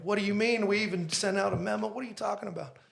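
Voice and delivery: high, heated disbelief; retold upset. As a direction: scold the staff in mock fury. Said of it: "went Italian and started throwing stuff".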